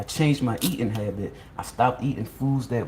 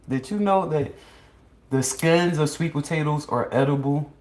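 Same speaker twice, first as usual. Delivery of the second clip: showy retake; 5 semitones higher than usual. Shown as a demonstration. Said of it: "Had to say that again".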